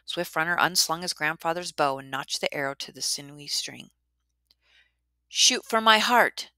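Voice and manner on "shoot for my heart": loud, slow, high beast voice; slow monster challenge. A narrator's reading. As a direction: dare him slowly as the bear. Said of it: "said the Niawaguhi".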